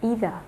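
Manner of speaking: either said as "eye-za" the Australian way; clipped Australian either, eye-za; Australian pronunciation. Shown as a demonstration. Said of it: "người Úc nói là".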